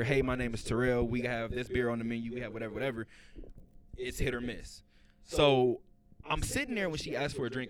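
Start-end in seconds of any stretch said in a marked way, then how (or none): 0.0-3.1 server greeting. Shown as a demonstration. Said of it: "you're supposed to come over here".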